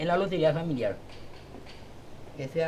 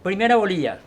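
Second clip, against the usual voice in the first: lottery caller; 3 semitones higher, 9 dB louder than usual. Shown as a demonstration. Calling lottery numbers aloud.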